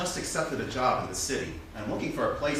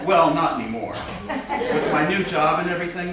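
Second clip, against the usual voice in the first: joking laughter; 2 semitones higher, 5 dB louder than usual. Acted. Joking about being serial killer.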